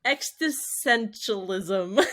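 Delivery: "existentialism" slowly mangled as eks-dis-sen-shul-ism; struggling pronunciation. Real, not acted. Host tackling a hard topic name, struggling through "existentialism". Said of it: "very hard time pronouncing".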